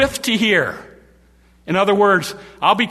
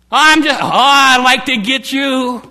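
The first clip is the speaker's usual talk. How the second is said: loud and higher, seething; menacing growl of rage; furious threat; 5 semitones higher, 6 dB louder than usual. Pretend. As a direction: spit out the threat like a grudge. Voicing someone seething with anger.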